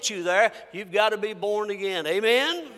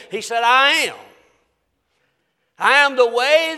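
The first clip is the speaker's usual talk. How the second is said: emphatic preaching with loud bursts on key words; forceful, loving declaration; 4 dB louder than usual. Real, not acted. Preacher quoting Jesus to his congregation, forceful yet loving. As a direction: hammer each claim home, letting it ring. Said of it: "Let me say it forcefully, but let me say it lovingly".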